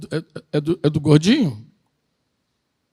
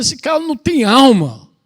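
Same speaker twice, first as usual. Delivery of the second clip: slow, louder outraged cry at the end; mock indignation; 3 semitones higher, 6 dB louder than usual. Pastor voicing the congregation's outrage at a killer, slow and louder. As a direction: let "que monstro" land with slow, louder outrage. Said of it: "Tu fica assim indignado".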